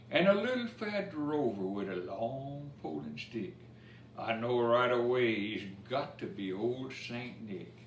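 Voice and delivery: lively storybook reading in Cajun dialect; rhythmic bedtime-story recital; reading a rhymed story. A narrator's reading. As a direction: read the verse to children with a bounce. Reads Cajun Christmas poem aloud.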